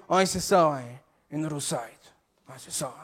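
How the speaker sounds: low, slowing Québécois confirmation; Québécois accent. Acted. Customer confirms the roussette to cashier, low Québécois accent. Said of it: "je vais faire un accent".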